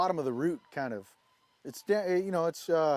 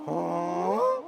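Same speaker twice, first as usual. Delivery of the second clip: goose honk. Shown as a demonstration. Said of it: "I sound silly doing it".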